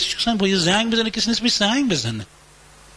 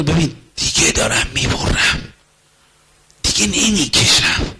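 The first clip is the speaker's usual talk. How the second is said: weary; 3 semitones lower, slower than usual. Acted. Spouse worn out, feeling burdened.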